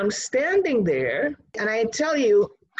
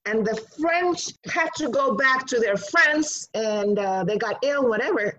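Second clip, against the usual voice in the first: a dismissive teacher's voice, a bit higher; imitating the teacher; 4 semitones higher than usual. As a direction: brush it off like an uninterested teacher. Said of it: "And then she says".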